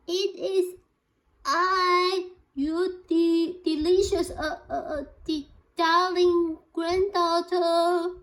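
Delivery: put-on wolf squeezing his voice high to sound like a girl; wolf's fake high voice. A narrator's reading. Wolf pretending to be the granddaughter at Granny's door, falsetto. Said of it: "said the wolf in a high voice".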